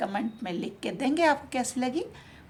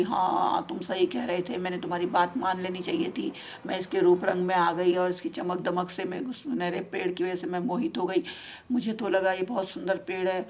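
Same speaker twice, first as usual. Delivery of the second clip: regretful crying pigeon; 6 semitones lower than usual. Acted. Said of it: "और बहुत रोने लगे दोनों".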